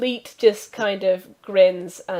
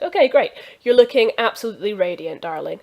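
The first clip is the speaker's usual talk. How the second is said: gushing compliment; 6 dB louder, faster than usual. Acted. NPC compliments the stable master.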